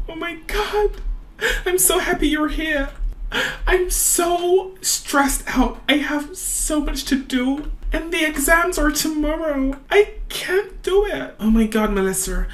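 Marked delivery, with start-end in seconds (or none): 0.1-11.4 overwhelmed student close to tears; stressed, tearful. Acted. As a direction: plead it out, pitched high and upset. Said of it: "I think she's stressed".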